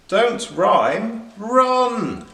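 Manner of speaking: high urgent shouted warning; yell. Acted. Rabbits yelling at the rabbit to run, loud and high. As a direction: yell it at him to flee. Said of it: "yelled the other rabbits".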